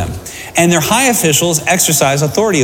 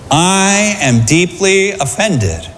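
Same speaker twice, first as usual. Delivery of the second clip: mock offended Jesus; 2 semitones higher, much slower than usual. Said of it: "It doesn't say".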